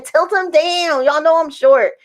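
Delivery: high, slowed mock demand; retold calling out. Mother asking to see her baby, retold call. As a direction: call it out in comic protest. Calls out to those holding baby.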